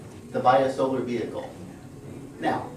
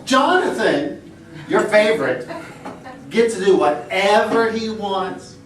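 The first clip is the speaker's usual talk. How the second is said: put-on whiny child; 5 semitones higher, 3 dB louder than usual. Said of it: "my daughter Emily speaking".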